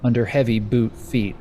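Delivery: lightly dramatic storyteller delivery; game master's scene setting. Acted. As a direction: set an uneasy scene, phrase by phrase.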